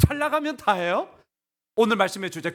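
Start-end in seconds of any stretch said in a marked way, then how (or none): 0.1-1.1 high-pitched rhetorical question; pointed question, pitch lifted high; indignant challenge. Acted. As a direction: toss it out as an incredulous protest. Acted challenge, piling up questions.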